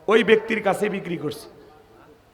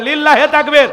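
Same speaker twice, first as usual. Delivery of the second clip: takbir call; 6 semitones higher, 11 dB louder than usual. Real, not acted. Calling takbir to the crowd.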